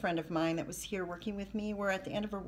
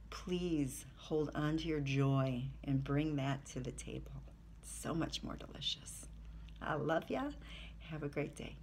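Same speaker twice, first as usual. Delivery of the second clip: soft whisper, lower; 4 semitones lower, 6 dB quieter than usual. Real, not acted. Whispering a tender Christmas wish to her viewers. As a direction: whisper it like a secret blessing.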